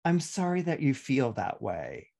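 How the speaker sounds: a hint of a dismissive non-apology; fake apology. Shown as a demonstration. Astrologer demonstrating the hollow apology, lightly dismissive. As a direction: say sorry without meaning it. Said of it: "can you hear the difference?".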